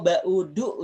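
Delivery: BAUDU with the r and w dropped; local dialect pronunciation. Shown as a demonstration. Teacher giving the local word to children, local dialect pronunciation. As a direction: say BAUDU as two run-together vowels, ba-u-du. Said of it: "ujar orang kita".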